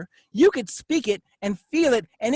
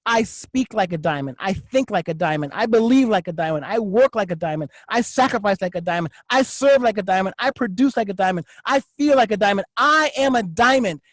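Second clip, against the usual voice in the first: low, steady chant of affirmations; a hint of a personal mantra; affirmation recital; 3 semitones lower than usual. Shown as a demonstration. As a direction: declare each line like a creed. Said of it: "what right do I have to say".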